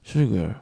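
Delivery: 手本の発音「Sugar」; model pronunciation of sugar. Shown as a demonstration. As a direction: model "Sugar" for the class, ending like "shuga". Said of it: "イーアールと同じ発音します".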